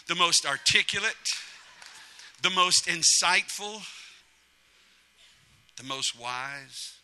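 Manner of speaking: slow, savored list of compliments; drawn-out praise. Acted. God listing for Adam, slowly savoring each praise.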